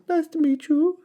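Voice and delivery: high, hooting dinosaur chant; high cheerful duckbill hoot. A narrator's reading. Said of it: "they hooted".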